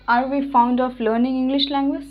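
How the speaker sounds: very slow, every word laid out clearly; slow model sentence. Shown as a demonstration. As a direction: dictate it slowly for students to copy. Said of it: "सिर्फ ये बोलिए". (बहुत धीमे, हर शब्द साफ़-साफ़ बोलकर)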